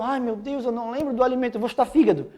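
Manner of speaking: a touch of put-on dread; mock panic. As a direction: imitate a student starting to panic. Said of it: "você pode ficar apavorado".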